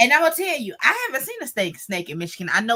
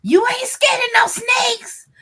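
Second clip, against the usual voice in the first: higher, slow teasing friend's question; 12 semitones higher, 4 dB louder, slower than usual. Retold or imitated. Friend on the phone teases her about snakes, slow and higher. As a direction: needle her slowly about snakes, pitched up.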